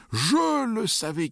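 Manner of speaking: high, loud, drawn-out victory shout; slow, soaring shout of vindication; triumphant cry. A narrator's reading. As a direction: cry out in triumph, stretching it slowly. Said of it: "cria victorieusement oncle Vania".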